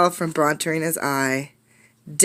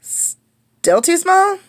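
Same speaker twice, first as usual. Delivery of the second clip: much higher, very slow drawn-out question; dismayed question; 12 semitones higher, 4 dB louder, much slower than usual. Acted. Class finding yet another studio too small, dismayed. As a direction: stretch out the disappointment.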